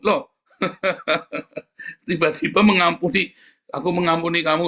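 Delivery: incredulous mock repeat; baffled. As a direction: sound amazed at the strange claim. Baffled retelling of the odd forgiveness.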